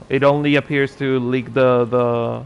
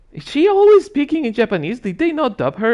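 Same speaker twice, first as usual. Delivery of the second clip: high quoted friend voice; 10 semitones higher, 4 dB louder, faster than usual. Retold or imitated. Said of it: "I was like".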